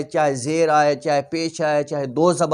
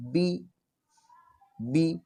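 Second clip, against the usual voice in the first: 1 dropped voice on bi; 9 dB quieter, much slower than usual. Shown as a demonstration. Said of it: "آواز نیچے گر رہی ہے".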